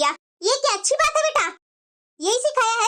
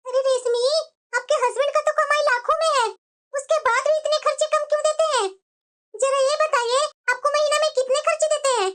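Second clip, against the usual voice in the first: lightly voiced sister-in-law; 2 semitones higher than usual. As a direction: ask gently, with concern. भाभी चिंता जताती. (ननद से phone पर हाल पूछती भाभी)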